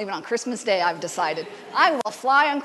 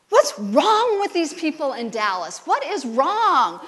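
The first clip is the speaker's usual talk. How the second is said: mock outrage; 3 semitones higher, 5 dB louder, slower than usual.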